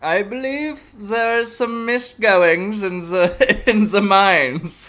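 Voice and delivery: mock German accent, slow and drawn out; stereotypical German accent. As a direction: ham up a German accent, slowly. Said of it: "I did a stereotypical German".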